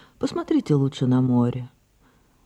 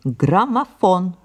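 insistent; 5 semitones higher, slower than usual. Acted. Sarah repeats her demand.

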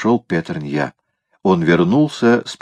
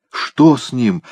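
higher-pitched worried question; alarmed; 6 semitones higher, slower than usual. A narrator's reading. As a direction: ask with open concern. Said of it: "встревоженно спросила шлюха". (встревоженно)

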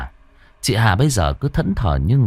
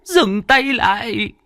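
put-on high, slow old woman's order; commanding grandmother; 13 semitones higher, slower than usual. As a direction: stop the ghost with a firm order. Bà nội ra lệnh. (giọng bà cụ ra lệnh, chậm và cao)

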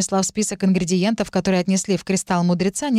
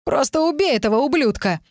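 exclaiming; 6 semitones higher than usual. Acted. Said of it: "воскликнул Сильвер".

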